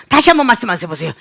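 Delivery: quick, irritated demand to repeat; mock angry demand. Customer demanding a repeat from the clerk, acted irritation. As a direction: demand it fast, with put-on annoyance. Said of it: "이거 화가 나는 거죠?".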